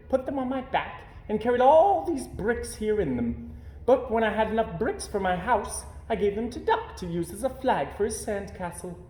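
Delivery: high, chatty zebra voice; a zebra cheerfully explaining, then sorry. A narrator's reading.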